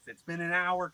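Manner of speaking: lightly voiced complaint at normal volume; mild mimicry of a wife's protest; imitated wife. Wife's quote, first take.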